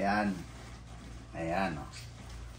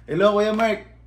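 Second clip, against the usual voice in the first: a hint of a suddenly polite caller, higher; sweet caller voice; 5 semitones higher, 3 dB louder than usual. Caller suddenly sweet to Kuya Mark, lightly mimicked politeness.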